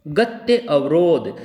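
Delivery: गत्य अवरोध said slowly as two separate words; slow, deliberate गत्य अवरोध; word split for sandhi. Shown as a demonstration. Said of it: "गत्य अवरोध सही है".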